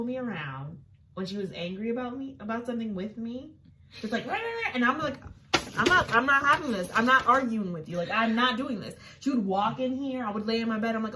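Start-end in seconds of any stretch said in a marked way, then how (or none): 4.3-4.7 mock ranting sister. 5.8-8.9 firm refusal. Retold or imitated. Refusing angry sister.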